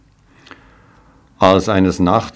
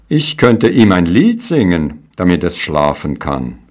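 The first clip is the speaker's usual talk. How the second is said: proud. Acted. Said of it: "rief voller Stolz".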